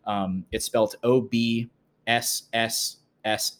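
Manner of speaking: slow spelling with "S S S" hissed long; drawn-out s like a snake. Shown as a demonstration. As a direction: stretch each "S" in "O B S S S" into a hiss. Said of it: "it's spelt a little funny".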